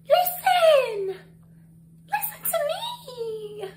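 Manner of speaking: high, laughing, slow mock plea. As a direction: beg through laughter, hammed up. Mock Karen pleading.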